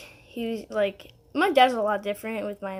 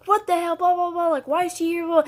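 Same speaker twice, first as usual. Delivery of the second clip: high, loud mock outburst; mom's hammed-up yell at the stepmom; 7 semitones higher, 4 dB louder than usual. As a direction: shriek it like an outraged mom. Mom yelling in made-up fight.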